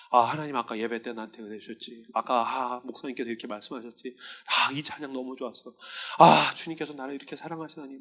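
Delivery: hushed prayer. Retold or imitated. Whispered prayer lying down.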